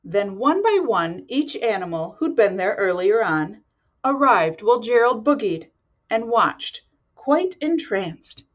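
lively storybook narration; reading to children. A narrator's reading. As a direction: read it like bedtime story. Reads picture book aloud.

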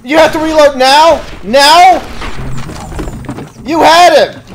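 high, loud, incredulous; furious disbelief at teammate; exasperated yelling. Real, not acted. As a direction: scold your useless partner. Yelling at AI partner.

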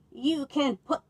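a ram's loud bawl. Acted. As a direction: bellow it like an angry ram. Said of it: "bawled the old ram".

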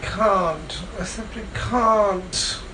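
drowsy, slurred mumbling; sleep talking. Real, not acted. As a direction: mumble half asleep, very slow at the end.

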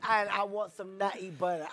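hammed-up attempt at an English accent; badly faked English accent; awful English accent. Comic orders food in his awful English accent. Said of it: "My English accent?".

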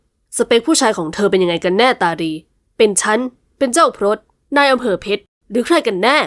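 a hint of a cold, suspicious man; lightly voiced jealous man. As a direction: press her, coolly jealous. Jealous master interrogates heroine. (ชายหนุ่มหึงหวงถามเสียงเย็นชาเล็กน้อย)

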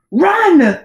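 loud, high royal bark; barked order. A narrator's reading. King orders the hesitating boy off, barking. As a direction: bark it as a sharp command. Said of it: "barked the king".

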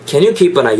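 "Can you keep an eye" as one linked chunk; words joined. Shown as a demonstration. Teacher demonstrates liaison to learners, linked. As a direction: run keep into an eye, "kee-pa-nai". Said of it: "이렇게 붙는 거죠".

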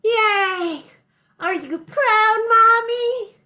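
put-on high, eager little-kid cheer; excited cheer. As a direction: cheer it like a proud child. Cheering at end of song.

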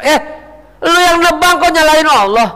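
high, forceful scolding; indignant rebuke. Acted. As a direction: throw the blame straight back at them. Preacher rebukes those blaming God.

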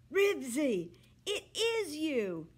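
high loud call of the dog's name; shouting. A narrator's reading. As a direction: shout his name into the phone. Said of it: "Henry was shouting".

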